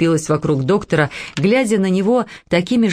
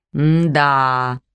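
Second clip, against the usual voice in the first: thoughtful hmm; 4 semitones lower than usual. A narrator's reading. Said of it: "задумчиво произнёс он".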